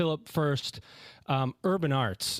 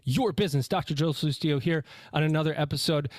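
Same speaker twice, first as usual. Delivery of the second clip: out of breath. Real, not acted. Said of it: "I'm a little out of breath".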